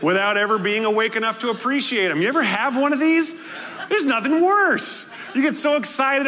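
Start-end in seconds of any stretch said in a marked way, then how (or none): 2.2-6.3 laughing, much higher and louder. Real, not acted. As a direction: laugh through it, mock exasperation. Mocking ungrateful gift reactions.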